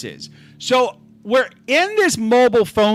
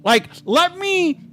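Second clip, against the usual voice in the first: mocking impression of a meddler; 4 semitones higher than usual. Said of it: "he's like".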